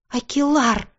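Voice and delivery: high-pitched outraged cry, read aloud; indignant roar. A narrator's reading. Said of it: "взревела она". (возмущённый рёв на высоких нотах)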